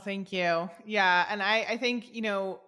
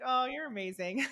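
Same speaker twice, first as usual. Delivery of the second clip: higher, gushing thanks dissolving into a laugh; 6 semitones higher than usual. Retold or imitated. Thanking her husband James, higher laughing gush. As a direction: gush gratefully, then break into giggles.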